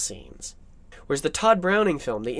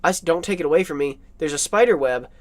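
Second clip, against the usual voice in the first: voicing Renfield; 4 dB louder than usual. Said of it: "And then".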